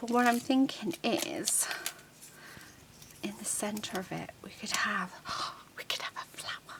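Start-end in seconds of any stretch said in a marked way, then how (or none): 3.2-6.8 soft, hushed, musing whisper. Designing a card, the speaker drops into whispering. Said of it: "I don't know why I'm whispering".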